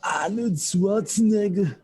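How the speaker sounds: high, loud mock-Austrian accent; Arnold Schwarzenegger impression. Guest greets the streamer as Arnold, hammed-up Austrian accent. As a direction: announce the name in a hammy Austrian accent. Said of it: "try to do an Austrian accent".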